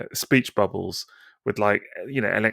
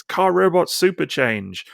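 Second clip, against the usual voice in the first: higher, slow toy-robot battle cry; hammed-up robot call; 7 semitones higher, 3 dB louder, slower than usual. Reading a comic panel as a slow robot battle cry. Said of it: "shouting as they're in battle".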